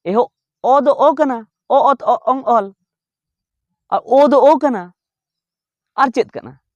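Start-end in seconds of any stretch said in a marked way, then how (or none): 0.0-2.7 ᱚ, ᱚᱛ, ᱚ, ᱚᱝ, ᱚᱞ spelled out slowly and higher, one letter at a time; teacher sounding out ᱚ ᱚᱛ ᱚ ᱚᱝ ᱚᱞ; letter sounds demo. Shown as a demonstration. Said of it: "ᱱᱚᱣᱟ ᱫᱚ ᱪᱮᱫ ᱞᱮᱠᱟᱛᱮ". 3.9-4.9 ᱳ said slowly, higher and louder; teacher holding out the letter ᱳ; sounding out ᱳ. Shown as a demonstration. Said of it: "ᱱᱚᱣᱟ ᱫᱚ ᱪᱮᱫ ᱞᱮᱠᱟᱛᱮ".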